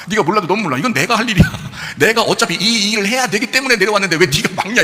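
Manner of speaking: retold scolding, pressing the point home; acted rebuke. Acting Jesus rebuking Peter.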